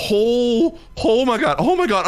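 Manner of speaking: reliving the moment of panic; excited. Retold or imitated. Retold freak-out at realizing the spoiler.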